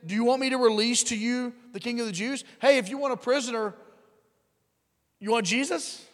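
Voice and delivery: a governor who can't believe what he's hearing; incredulous Pilate. Retold or imitated. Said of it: "he answered them saying".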